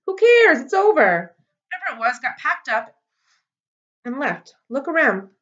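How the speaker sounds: loud, high bossy orders; ordering. A narrator's reading. Girl ordering Ware to look around, loud and bossy. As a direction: bark it out like the boss of the place. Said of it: "she ordered".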